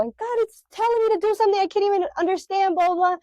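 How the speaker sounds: mock arguing. Speaker arguing with husband in the closet, frustrated rant. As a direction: vent it like a heated argument. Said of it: "in the midst of my arguing".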